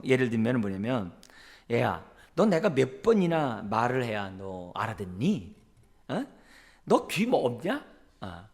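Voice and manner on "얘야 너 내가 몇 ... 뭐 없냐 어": sarcastic nagging. Retold or imitated. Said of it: "부모가 이렇게 막 이렇게 빈정거리는".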